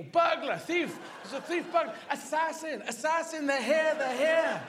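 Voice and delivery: high, urgent barked warning; dog raising alarm. Acted. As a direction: bark the words out like a frantic guard dog. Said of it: "trying to say".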